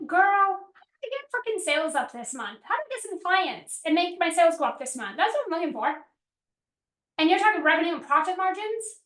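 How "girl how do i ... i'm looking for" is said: higher, pushy newbie asking for sales; impatient newbie client. Retold or imitated. Newbie business owner pleading with coach, higher impatient voice. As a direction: play the eager newbie who just wants clients. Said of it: "they're like".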